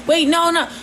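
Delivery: mock flustered no no; flustered protest. Retelling a heated debate.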